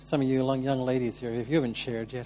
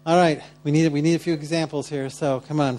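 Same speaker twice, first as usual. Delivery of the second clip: raised voice to reach the whole room; calling out to the room; 3 semitones higher, 6 dB louder than usual. Real, not acted. Leader calling out to the group for volunteers, loud. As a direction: call out for volunteers over the crowd.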